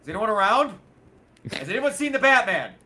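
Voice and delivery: nervous henchman. Retold or imitated. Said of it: "they'll just be like".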